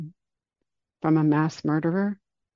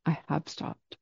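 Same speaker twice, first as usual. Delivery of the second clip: calm Buddha; 3 dB quieter than usual. Retold or imitated. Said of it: "the Buddha calmly stops".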